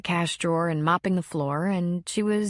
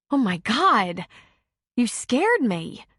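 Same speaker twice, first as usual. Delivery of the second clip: startled; 4 semitones higher, 3 dB louder, slower than usual. Acted. Startled by figure in dark.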